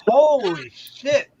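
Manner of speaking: slow, drawn-out holy shit; shocked holy shit. Retold or imitated. On the train beside a naked woman, slow stunned holy shit. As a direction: drag it out in shock.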